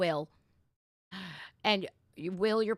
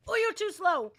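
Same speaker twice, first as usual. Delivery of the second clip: high, loud singsong tease; playful tease; 11 semitones higher, 7 dB louder than usual. Real, not acted. Dad teasing his son during a high five game, high and playful.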